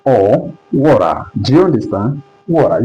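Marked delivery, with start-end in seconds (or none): 0.7-1.2 WATER with the T tapped like an R; American flap T. Shown as a demonstration. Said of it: "this flap sounds like R". 2.5-2.8 WATER with the T flapped to an R sound; American flap T. Shown as a demonstration. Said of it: "this flap sounds like R".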